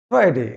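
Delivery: ফ্রাইডে as the teacher's careful model; corrected Friday. Shown as a demonstration. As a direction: model ফ্রাইডে for learners, falling at the end. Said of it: "সঠিক উচ্চারণটা কি হবে?". (ফ্রাইডে-র সঠিক উচ্চারণ দেখানো)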